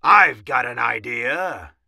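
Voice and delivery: loud commander's announcement; forceful mouse officer's exclamation; Big Cheese. A narrator's reading. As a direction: call it out boldly. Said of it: "squeaked the Big Cheese".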